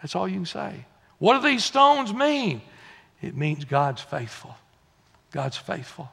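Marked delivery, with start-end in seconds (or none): 1.2-2.6 lightly voiced child, pitched up high and falling; a hint of a kid's singled-out question; child asking Daddy. Preacher repeats the children's question, lightly voiced child. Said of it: "The kids are gonna say".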